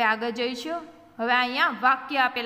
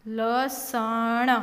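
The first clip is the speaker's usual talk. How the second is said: slow, one letter at a time; sounded out; slower than usual. Shown as a demonstration. Teacher breaking a word down for learners, sounded out. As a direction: stretch લસણ out as la-sa-na.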